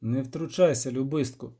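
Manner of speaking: even, unmoved rebuke; calm witcher. Acted.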